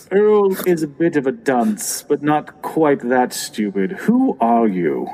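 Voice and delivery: a hint of a disdainful boss, slowing into the question; suspicious boss. Boss challenging an impostor, lightly voiced suspicion. Game master plays the boss.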